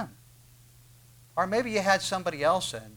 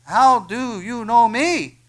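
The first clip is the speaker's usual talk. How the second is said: loud, slow, higher amazed question; stretched-out loud astonishment, pitched up; astonished Nathanael; 8 semitones higher, 12 dB louder, much slower than usual. Acted. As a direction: cry it out in disbelief. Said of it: "Nathanael said to him".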